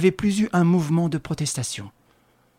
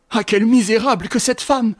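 higher, louder, leaning on misérable; angry outburst; furious insult; 9 semitones higher, 7 dB louder than usual. A narrator's reading. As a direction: spit out the insult. Enraged woman insulting rival.

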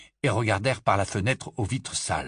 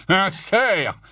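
scornful growl, raised in pitch; 8 semitones higher, 5 dB louder than usual. A narrator's reading. Barman mocking the stag sighting, growling. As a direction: growl it back with contempt. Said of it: "gronda le barman".

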